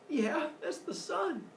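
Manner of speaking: put-on high, slow little-kid voice; a boy stating the obvious, drawn out; child's reply. Son answering mother about the sky, high slow child voice.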